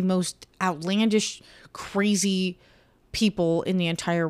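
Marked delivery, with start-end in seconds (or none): 1.7-2.6 breathy whisper on one word. Real, not acted. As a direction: drop to a whisper for emphasis.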